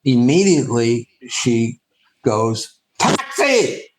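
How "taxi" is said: hailing a taxi. Retold or imitated. Woman on a New York street hailing a cab, high shout. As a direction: shout it out to stop a passing cab.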